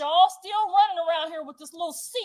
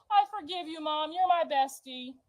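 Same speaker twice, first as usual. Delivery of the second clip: mock-sweet, softer forgiving voice; imitating sweet sister; 3 semitones higher, 3 dB quieter than usual. Daughter mimicking her sister forgiving mom, mock-sweet. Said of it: "My sister's a sweet little Gemini".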